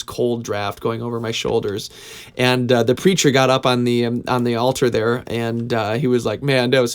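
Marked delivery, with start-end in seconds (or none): 6.4-6.9 put-on Southern accent. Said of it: "he had this thick Southern accent".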